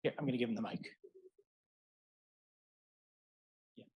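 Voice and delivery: speaking away from the mic; distant, off-mic voice; mic handed over. Real, not acted. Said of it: "I can't hear anything".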